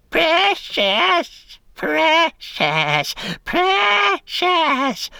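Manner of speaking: high, strained creature voice crying out; Gollum crying out. A narrator's reading. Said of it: "Gollum cried".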